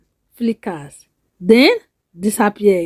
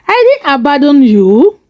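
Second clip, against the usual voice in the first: defensive; 2 semitones higher, 4 dB louder than usual. Acted. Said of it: "Adewale defensive".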